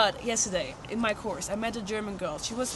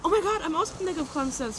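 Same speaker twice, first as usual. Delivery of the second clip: excited; 6 semitones higher than usual. Retold or imitated. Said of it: "I was excited".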